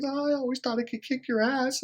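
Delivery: high, whiny girlfriend impression. Ex-girlfriend explaining why she cried, high and whiny. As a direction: play her up, high and whiny. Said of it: "She said".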